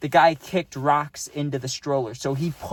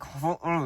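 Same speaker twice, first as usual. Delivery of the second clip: gritted-teeth grunt; 6 dB quieter than usual. Shown as a demonstration. Showing how people sound when really mad, gritted-teeth grunt. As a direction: grunt like you're too mad to open your jaw. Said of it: "you're gritting, you're holding your teeth together".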